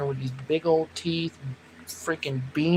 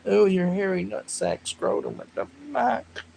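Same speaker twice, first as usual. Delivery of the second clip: self-questioning; 6 semitones higher than usual. Retold or imitated. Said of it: "I was like".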